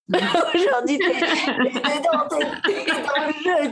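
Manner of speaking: slow, high, laughing reassurance; laughing encouragement. Real, not acted. Woman reassuring a listener, laughing. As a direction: cheer them on through a laugh.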